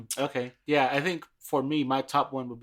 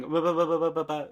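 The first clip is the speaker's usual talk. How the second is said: mumble rap imitation; 3 semitones higher than usual. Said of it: "So just hearing".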